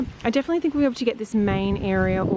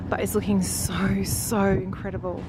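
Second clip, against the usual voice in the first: whispering. Real, not acted. Admiring the finished garden.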